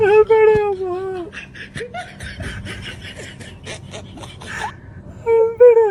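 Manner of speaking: loud shouting. Acted. Prankster yells at the sobbing woman to stop crying. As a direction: yell over her crying.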